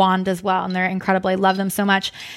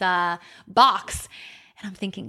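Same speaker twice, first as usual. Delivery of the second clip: usual speaking voice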